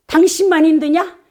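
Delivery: high, nagging mock rebuke; scolding wife. Wife scolding her tired husband home from work, high nagging tone. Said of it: "이렇게 하고 핀잔을 주기 때문에".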